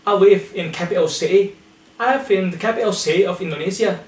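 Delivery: "capital city" as "capi'o si'ee" within the sentence; glottal T. Shown as a demonstration. Teacher using it in sentences, "capital city" with glottal stops. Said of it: "glottal T".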